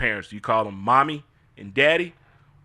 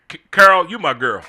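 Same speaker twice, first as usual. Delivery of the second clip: louder, higher call of the name; a loud, higher shout of the name; 4 semitones higher, 8 dB louder than usual. Real, not acted. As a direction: call out to her with excitement. Calling to the character.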